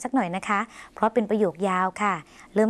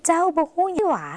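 doubtful question; 8 semitones higher than usual. Shown as a demonstration. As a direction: wonder in Lao, stretching the final หว่า. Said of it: "น้ำเสียงแบบสงสัยไม่แน่ใจค่ะ". (ถามแบบสงสัย ลากเสียงคำว่าหว่า)

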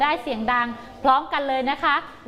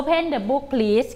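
slow model reading; much slower than usual. Shown as a demonstration. Teacher modelling the command to pupils. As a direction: Open the book please at half pace. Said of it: "คำสั่งนี้ใช้คำว่าอะไรคะลูก".

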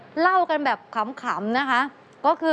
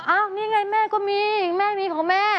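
lightly voiced mother, pitched higher; imitated mother protesting; 5 semitones higher than usual. Daughter imitating mother producing the marked banknote, higher innocent protest. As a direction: play mum innocently showing her own money.

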